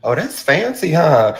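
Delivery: high, slow, wide-eyed fake wonder; playing dumb. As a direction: act amazed at something simple. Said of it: "I play stupid even when".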